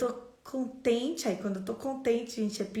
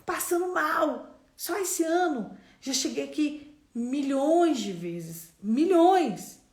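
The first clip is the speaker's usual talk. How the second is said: emphatic exclamation; 5 semitones higher, 6 dB louder, slower than usual. Real, not acted. Enfatizando em tom pregador.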